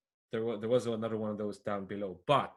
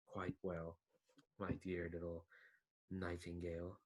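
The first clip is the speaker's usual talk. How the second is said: a hint of a smug schemer talking down to his pet; scheming villain to his bird. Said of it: "he'll just say, like".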